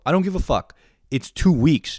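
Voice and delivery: high-pitched exasperated dismissal; furious. Retold or imitated. Ranting about the friend's two-week excuse, furious. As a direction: wave it away in outrage. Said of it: "I was so fucking furious".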